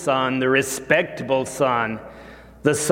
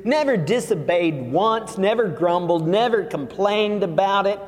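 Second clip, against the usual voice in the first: pitched-up aggrieved son listing his grievances; indignant son, lightly voiced; complaining older son; 5 semitones higher than usual. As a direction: whine your case to Dad.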